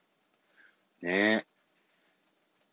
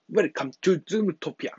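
put-on higher, slow Chinese-accented English; strong Chinese accent; 7 semitones higher, slower than usual. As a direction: imitate a CEO's thick Chinese accent. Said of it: "すごい中国訛りが強いですね".

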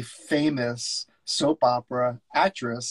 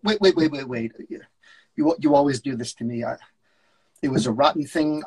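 lightly voiced harried agent, a bit raised; a hint of a busy New York agent; agent on the phone. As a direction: brush him off mid-call. S0 reads George.

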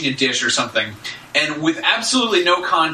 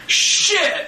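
caught-out whisper. Retold or imitated. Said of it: "And she's like".

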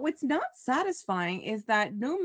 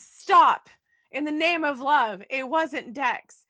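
hammed-up plea; 3 semitones higher, 6 dB louder, slower than usual. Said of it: "Carly shows up and says".

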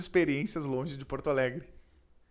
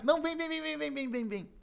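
high, quick come come come; coaxing host; 9 semitones higher, 6 dB quieter than usual. Retold or imitated. Host pulling the reluctant guest in, high coaxing. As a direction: wave him in, insistent.

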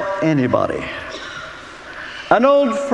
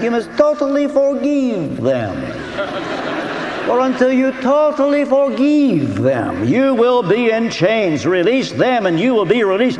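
a hint of a Romanian accent, a touch higher; 3 semitones higher than usual. Retelling the friend's words in a hint of a Romanian accent. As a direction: imitate the Romanian friend lightly, amused. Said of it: "I can hear him now in his Romanian accent".

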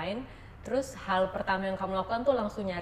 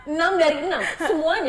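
loud, high, incredulous echo question; shocked disbelief; 9 semitones higher, 9 dB louder than usual. Real, not acted. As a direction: repeat it back in astonished laughter. Host shocked at mass resignation.

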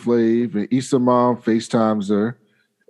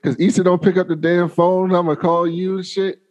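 higher, bossy mom voice; sassy mom; 6 semitones higher than usual. Retold or imitated. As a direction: boss him around like a mom. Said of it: "And then she's like".

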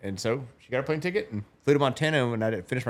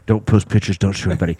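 loud quote; 5 semitones lower, 7 dB louder than usual. Retold or imitated. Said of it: "she was like".

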